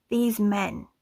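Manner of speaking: lightly performed literary reading; reading aloud from a novel. Acted. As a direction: read the passage to viewers, savouring it. Reads passage from the novel.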